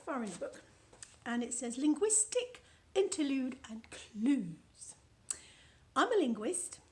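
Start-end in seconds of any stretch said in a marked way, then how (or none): 1.8-6.8 slow hushed reading of a heading; slow theatrical whisper reading. Acted. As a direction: whisper the title like a secret. Reading book excerpt aloud.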